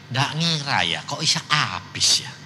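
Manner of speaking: soft, hushed, as if too shaken to speak up; stunned whisper. Retold or imitated. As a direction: breathe it out, dazed and barely voiced. Father stunned after ruin. (bisikan tertegun)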